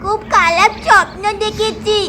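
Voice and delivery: a child whimpering and sobbing about a bad dream; crying child. Little boy telling his mother about the ghost dream, tearful whimper. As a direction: cry out to mum, scared from the nightmare.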